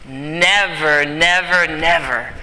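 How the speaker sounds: "never" three times, each one drawn out firmly; insistent, evenly stressed "never"; emphatic repetition. Real, not acted. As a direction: hammer every "never" with equal weight. Hammers the key word.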